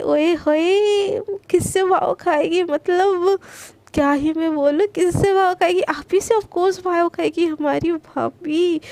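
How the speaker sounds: playful singsong teasing, drawn out. Acted. Mahira teasing Garima about her girlfriend, playful teasing. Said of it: "ऐसे बोल के उसको छेड़ने लगती है".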